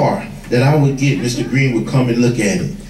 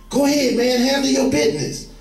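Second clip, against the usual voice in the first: high, egging-on voice of the gun; tempting pistol; 10 semitones higher, 3 dB quieter than usual. Retold or imitated. The pistol urging him to shoot, a high taunting voice. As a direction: coax him like a devil on the shoulder. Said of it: "that pistol go to talking to you".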